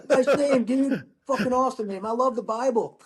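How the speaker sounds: laughing. Retold or imitated. Laughing guy retold introducing himself.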